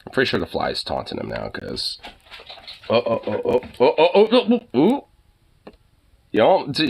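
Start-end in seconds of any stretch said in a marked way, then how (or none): 2.9-5.1 excited oh oh oh. Real, not acted. Chasing a fly around the room.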